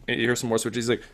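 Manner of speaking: ordinary delivery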